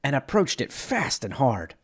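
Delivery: documentary-style narration of a starship crash; dramatic lore narration. Acted. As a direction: tell it like an epic space tragedy. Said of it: "this dramatic telling".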